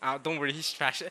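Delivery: lightly acted condescending reassurance; retold condescension. Older sibling letting the youngest play, mildly condescending. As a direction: brush the kid off with mock patience. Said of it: "it's so condescending".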